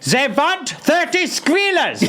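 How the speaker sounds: high, slow laughing shout; German shop worker. Acted. German clerk shouting the order to coworkers, high and slow. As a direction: bellow the order while cracking up.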